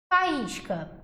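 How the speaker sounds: "Faísca" com o I pleno e tônico; hiato pronunciado. Shown as a demonstration. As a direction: say "Faísca" with A and I as two separate vowels. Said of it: "A gente fala faísca". ("Faísca" com hiato bem marcado)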